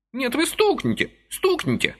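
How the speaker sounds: a hint of a yell; old man's mock shout. A narrator's reading. Old man demands Vasily strike, high pleading shout. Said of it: "закричал старичок".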